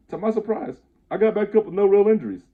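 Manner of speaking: high, loud, surprised narration; amazed. A narrator's reading. Narrator getting up unhurt after the crash, amazed. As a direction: lift it right up in amazement.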